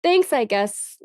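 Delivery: grudging tsundere thanks; dismissive, grudging thanks; huffy flustered denial. Pretend. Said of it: "I'm supposed to be a tsundere".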